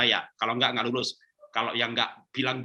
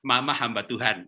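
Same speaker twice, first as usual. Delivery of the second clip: tender declaration; 3 semitones lower than usual. Acted. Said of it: "bilang sama anaknya".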